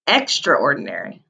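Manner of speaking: extraordinary said slowly, every syllable clear; model word extraordinary. Shown as a demonstration. Teacher models extraordinary for the class to repeat. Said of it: "Can you say that word?".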